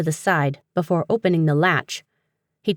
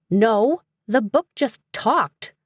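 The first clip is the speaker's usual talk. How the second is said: higher, slow, incredulous voice; shaken disbelief; 6 semitones higher, slower than usual. A narrator's reading. Climbing up after the book talked, shaken disbelief. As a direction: insist on it in astonishment.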